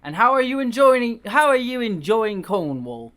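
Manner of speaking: put-on a kindly old British vicar asks. Vicar asking the visitor about Cornwall in a British accent. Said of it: "all the British accents here".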